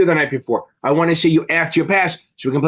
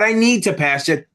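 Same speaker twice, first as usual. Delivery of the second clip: unsure, pleading; 3 semitones higher than usual. Shown as a demonstration. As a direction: say "I need to pass it" as a nervous hope, pitch a bit raised.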